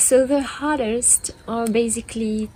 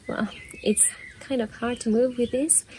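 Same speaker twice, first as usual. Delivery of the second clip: whispering; 6 dB quieter than usual. Real, not acted. Aside while filming.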